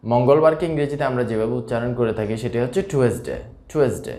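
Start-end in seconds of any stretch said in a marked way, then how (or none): 2.9-4.1 টুয়েসডে as three syllables "tu-es-de"; mispronounced টুয়েসডে, short "de" ending; wrong pronunciation. Shown as a demonstration. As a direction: say টুয়েসডে with a separate e in the middle. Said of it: "এটি আসলে ভুল উচ্চারণ".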